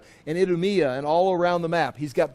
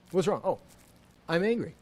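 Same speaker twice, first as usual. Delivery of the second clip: softer, dry and toneless; flat no tone; 5 dB quieter, faster than usual. Pretend. Preacher shows saying angry without any tone change, flat. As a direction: announce it like you feel nothing. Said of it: "you know, tone change".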